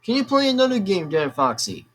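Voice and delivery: mock asker. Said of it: "if anybody tells me to say".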